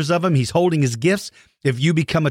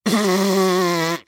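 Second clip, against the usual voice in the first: mock dinosaur roar. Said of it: "gonna give you a shout-out dinosaur noise".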